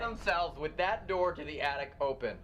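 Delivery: alarmed. Real, not acted. Shocked at the open attic door.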